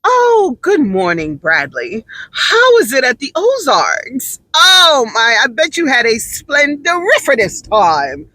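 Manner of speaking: mock the overly polite alternative; a hint of a stuffy, proper colleague; prim proper office talk. Shown as a demonstration. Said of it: "Instead of".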